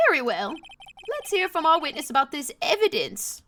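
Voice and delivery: lightly voiced old judge; a hint of creaky old man. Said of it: "My old man voice is crazy".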